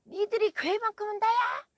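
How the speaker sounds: high, loud outraged yell; piercingly pitched shout, retelling his outburst; imitated shouting. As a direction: act out the man's screamed rebuke. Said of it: "막 소리 지르시는 거예요".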